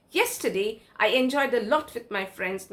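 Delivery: Yesterday spoken with a rising tune, then a short break; emphasis on yesterday. Shown as a demonstration. Teacher repeating the example, stressing yesterday. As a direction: lean on Yesterday before the rest. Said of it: "the word yesterday is emphasizing".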